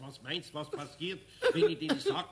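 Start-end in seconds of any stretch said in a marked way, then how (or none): 1.5-2.3 louder laughing aside. Acted. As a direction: laugh at the thought. Eder laughs at the idea.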